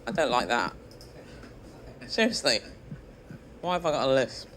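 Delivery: squeaky lisping voice; puzzled, lisping and squeaky. Real, not acted. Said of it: "The reason my voice sounds quite so strange".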